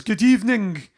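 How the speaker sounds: put-on light Scottish accent on a greeting; a hint of a Scottish good evening. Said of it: "in his Scottish accent".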